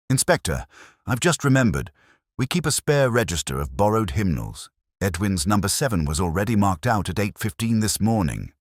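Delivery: the vicar hurrying over, calling the inspector. Acted. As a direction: call out to the inspector from behind. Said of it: "a voice called out".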